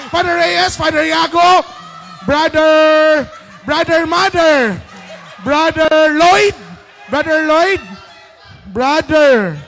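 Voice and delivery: loud rapid guesses; shouting guesses. Real, not acted. Player shouting guesses at the clock. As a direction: yell out each answer.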